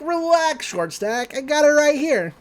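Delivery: high, mocking demon voice, lightly done; imitating Bill Cipher. Retelling Bill taunting Dipper in a high mock voice.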